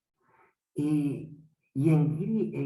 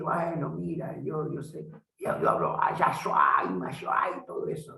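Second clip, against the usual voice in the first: mock show-off. Mocking a show-off pastor.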